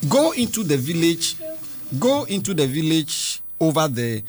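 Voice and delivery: deliberate, phrase-by-phrase reading; scripture reading. Real, not acted. Host reads Jesus' words to children, deliberate reading. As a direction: read the verse out with pauses.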